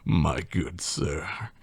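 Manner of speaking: slow, soft, drawn-out address; quiet, deliberate mouse voice; menacing mouse. A narrator's reading. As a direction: address the victim with slow courtesy. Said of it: "says the mouse".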